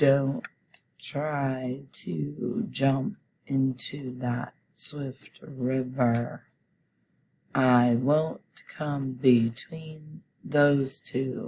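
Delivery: monotone mechanical robot voice, very slow. Leading a class through practice sentences, reading them aloud: robot voice. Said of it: "let's read it like a robot".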